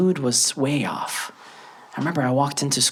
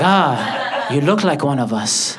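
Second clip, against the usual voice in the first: put-on Latino accent; much slower than usual. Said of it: "Jose, came up to me".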